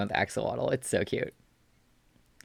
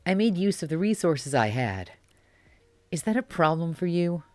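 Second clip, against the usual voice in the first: put-on defensive bratty boy; 5 semitones higher than usual. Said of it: "give him a cutie voice".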